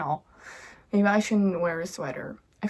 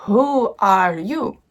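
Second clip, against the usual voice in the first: put-on little girl voice; 7 dB louder, much slower than usual. Child Lily meets boy.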